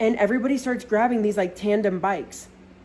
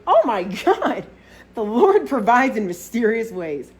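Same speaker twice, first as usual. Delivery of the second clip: drawn-out mock-reverent rejoicing; overjoyed; 2 semitones higher, 4 dB louder, slower than usual. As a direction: praise a small miracle, slowly savored. Overjoyed at finding a liquor store.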